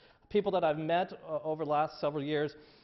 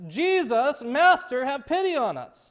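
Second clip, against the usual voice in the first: higher, louder plea across a distance; calling out loud; 8 semitones higher, 7 dB louder than usual. A narrator's reading. Lepers crying out to Jesus from a distance, loud high plea. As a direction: cry out to him from far away. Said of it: "called out in a loud voice".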